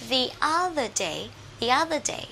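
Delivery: "the other day" with "the" as "thee"; THE before vowel. Shown as a demonstration. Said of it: "The trước nguyên âm". (đọc "the other day", "the" thành "đi")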